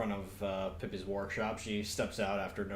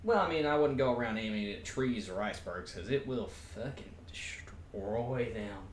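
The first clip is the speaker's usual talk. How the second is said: Pippi voice. Acted. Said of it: "my Pippi voice".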